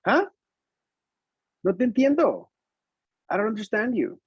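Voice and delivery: put-on high-pitched puzzled kid voice; baffled little pupil, imitated; confused young student. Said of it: "there was Jorgito, who said".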